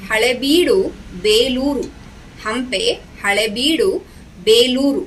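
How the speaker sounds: measured, rhythmic verse reading; lilting classroom poem reading; poem recitation. Shown as a demonstration. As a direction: recite each phrase clearly for pupils to follow. Recites the second stanza.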